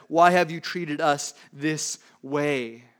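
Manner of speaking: "Why" drawn out, slow and wounded; a mother's slow, hurt reproach; slow reproachful mother. Acted. Preacher voices Mary's accusing question.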